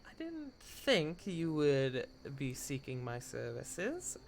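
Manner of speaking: slow, soft knowing hostess; sultry geisha. Acted. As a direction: draw out each word. Gale speaks in character.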